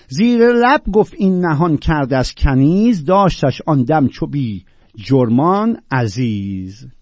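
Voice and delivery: emphatic verse declamation; poetry recitation. Acted. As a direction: declaim the lines with measured weight. Recites classical verse aloud.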